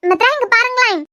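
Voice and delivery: calling out. Acted. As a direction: shake her awake with your voice. Trying to wake fainted girl.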